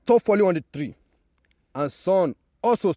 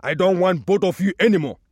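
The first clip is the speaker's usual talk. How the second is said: a bit louder, fed up and dismissive; fed-up tree; 4 dB louder than usual. Acted. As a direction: push them away, mildly cross. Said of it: "The tree said".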